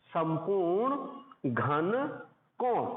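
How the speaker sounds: very slow, word by word for notes; slow dictation. Shown as a demonstration. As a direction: spell out संपूर्ण घन कोण slowly. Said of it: "उसको लिखते हैं संपूर्ण घन कोण".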